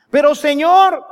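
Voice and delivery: high, loud plea to God; desperate cry. Retold or imitated. A suffering believer crying out to God, loud and pleading. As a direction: cry out to the Lord in anguish. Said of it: "y le grita a la gente".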